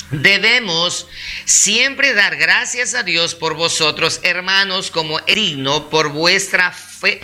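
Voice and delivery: scripture read out slowly and deliberately; measured Bible reading; slow, calm reading. Real, not acted. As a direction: take the verse unhurriedly, phrase by phrase. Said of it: "es leerlo despacio, calmado".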